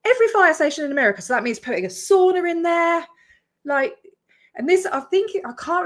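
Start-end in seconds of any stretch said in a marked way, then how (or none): 0.0-1.2 disbelieving repeat, higher and fast; scoffing at what he just said; incredulous echo. Retold or imitated. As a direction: throw the words back in disbelief. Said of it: "He's about to say that".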